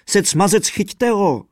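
high, loud bellow; bellowing fiddler. A narrator's reading. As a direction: holler at the others to catch him. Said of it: "hulákal houslista". (hlasité hulákání houslisty)

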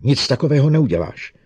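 loud, high angry refusal; furious. Acted. Bogart forbids Lanning, loud and furious. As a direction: forbid it, red in the face. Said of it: "Obličej mu zrudl vztekem".

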